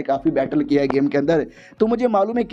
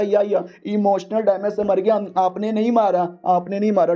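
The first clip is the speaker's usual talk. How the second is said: nervous servant; 3 semitones higher than usual. Acted. Servant nervously agrees with hero.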